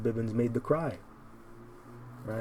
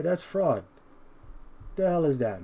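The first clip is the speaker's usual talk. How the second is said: angry raised preaching; 4 semitones higher than usual. Real, not acted. Preacher to listeners, outraged high shout. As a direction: thunder out the accusation.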